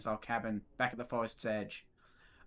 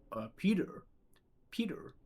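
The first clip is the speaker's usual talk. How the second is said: whispered call; 5 semitones higher than usual. Acted. Cartoon wife whispering for her husband. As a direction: hiss the name in a whisper.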